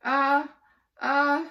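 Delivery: high, drawn-out groan. Acted. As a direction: groan it in despair. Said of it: "I groaned".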